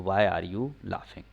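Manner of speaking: slow, drawn out; slow teaching read; slow recap read. Shown as a demonstration. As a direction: repeat the answer slowly for the class. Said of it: "तो".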